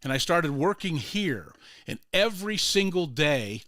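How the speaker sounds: careful, uncontracted English in a Hispanic accent; imitated Hispanic accent. Groundskeeper explains the daily visitors, in imitated Hispanic accent. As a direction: retell it in an immigrant's Hispanic accent. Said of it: "Hispanic accent".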